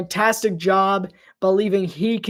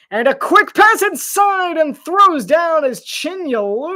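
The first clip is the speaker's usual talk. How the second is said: excited call; 7 semitones higher, 5 dB louder than usual. Real, not acted. Call of a dunk.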